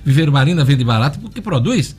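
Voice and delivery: upbeat live radio ad read; hard sell ad. Acted. Host reads live sponsor ad.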